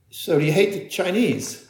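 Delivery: a light imitation of a New Zealand interviewer's accent; lightly put-on New Zealand accent, asking a pointed question; Kiwi accent. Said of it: "In a kind of Kiwi accent".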